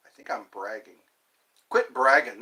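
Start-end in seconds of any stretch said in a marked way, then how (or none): 1.7-2.4 Canadian saying. Retold or imitated. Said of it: "That's what Canadians say".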